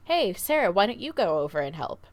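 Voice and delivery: lightly voiced chiropractor calling her over; calling across the room. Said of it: "Andrew goes".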